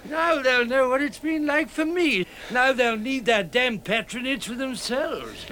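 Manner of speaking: high-pitched bitter glee; gloating. Acted. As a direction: crow over their misfortune. Blind man gloats over the newly blind.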